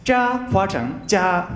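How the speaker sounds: 加 said for 扎, slow and careful; Japanese-style jia sound. Shown as a demonstration. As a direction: say 加 slowly, like a learner.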